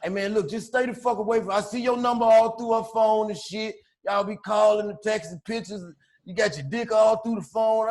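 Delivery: lightly voiced soft-spoken tough talk; soft tough guy. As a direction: imitate a mild-voiced guy warning you off. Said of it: "this how this nigga talking to me".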